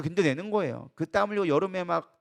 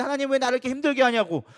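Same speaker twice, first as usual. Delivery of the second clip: higher-pitched mock protest to God; imitated complaint; 5 semitones higher than usual. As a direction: act out a believer blaming God. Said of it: "하나님 앞에 어떻게 떠넘기려고". (하나님께 원망하는 흉내)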